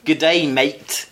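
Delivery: slow, put-on Australian greeting; Australian accent. Host defying a listener's request, mock Australian accent. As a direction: ham up an Australian accent, drawn out. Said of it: "put on an Australian accent".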